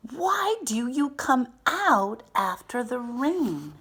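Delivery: put-on high, loud, curious little-girl voice; little girl's question. A narrator's reading. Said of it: "Now this little girl says".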